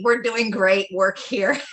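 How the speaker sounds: slow, laughing brush-off; laughing dismissal. Real, not acted. Brushing off the persistent seller with a laugh, slow. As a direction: laugh it off, slowly.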